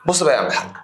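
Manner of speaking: whispered aside to the student. Real, not acted. Teacher whispering to a student to pay attention. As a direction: lean in and whisper it. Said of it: "sudden whisper".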